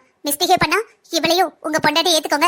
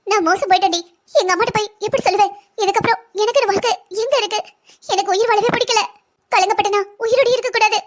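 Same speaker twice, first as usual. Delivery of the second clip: high-pitched tearful wail; crying; 4 semitones higher than usual. Acted. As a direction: sob out despair as a ruined victim. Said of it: "எதுவா இருந்தாலும் அழாம சொல்லு".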